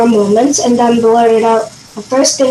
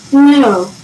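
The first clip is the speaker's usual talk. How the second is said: short answer. A narrator's reading. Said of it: "short answer".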